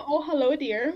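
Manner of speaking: demonstrating a mock Midwest greeting; a touch of folksy Midwestern imitation; Midwest accent. Shown as a demonstration. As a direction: lightly put on a Midwest accent. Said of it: "I can do the".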